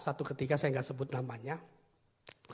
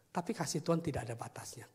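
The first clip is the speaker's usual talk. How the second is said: tender whisper; 4 dB quieter than usual. Real, not acted. Tender sermon climax.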